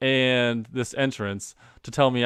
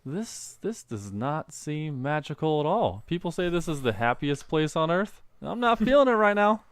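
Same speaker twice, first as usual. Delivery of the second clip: sarcastic complaint; 5 semitones higher than usual. Retold or imitated. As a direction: grumble that the magic is missing. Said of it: "and I'm like".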